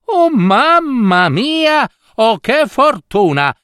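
high, drawn-out exclamation of delight; overjoyed mother. Acted. Mother seeing jewels fall from the girl's mouth, overjoyed.

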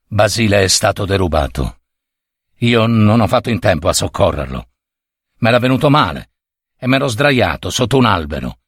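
low, hesitant confiding voice; grave old servant. Acted. Servant confides his suspicion to the mistress, grave.

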